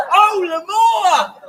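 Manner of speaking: laughing cue. Acted.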